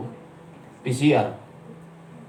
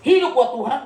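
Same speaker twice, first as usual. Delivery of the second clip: high pulpit slogan, rising at the end; mock preacher; 7 semitones higher, 3 dB louder than usual. Other pastors urging devotion to God, in mock preaching. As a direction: proclaim it like an imitated preacher. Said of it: "kalau ada pendeta-pendeta khotbah gini".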